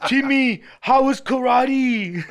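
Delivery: a hint of Arnold as a clumsy father; mock Arnold dad. Host mocking Arnold as a sitcom dad, laughing. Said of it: "he's walking around".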